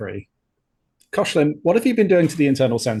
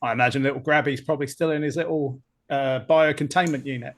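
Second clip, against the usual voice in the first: wobbly Cockney, drifting toward Australian; attempted Cockney accent. Crewman owns up to an ensign about the spiders, attempted Cockney accent. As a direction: have a rough go at Cockney. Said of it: "can you do the Cockney accent".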